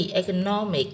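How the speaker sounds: "economic" with the stress on NO; stress on third syllable. Shown as a demonstration. Teacher showing students word stress, "economic" stressed on NO. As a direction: lean on the NO in "economic". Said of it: "âm no".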